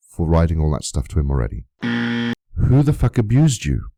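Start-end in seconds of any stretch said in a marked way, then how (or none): 1.8-3.9 slow, drawn-out, higher angry question; indignant outrage. Real, not acted. Vlogger furious at being called an abuser, slow indignant demand. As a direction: spell out each word in disbelief.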